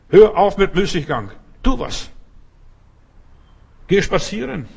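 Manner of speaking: loud exhortation. Real, not acted. Preacher ordering listeners to stop idling, loud and high.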